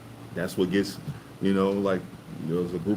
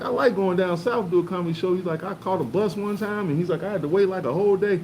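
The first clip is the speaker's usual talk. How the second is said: higher retold comic voice, lightly; a hint of Dave Chappelle; imitating Dave Chappelle; 10 semitones higher than usual. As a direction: tell the story like Chappelle. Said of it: "he said".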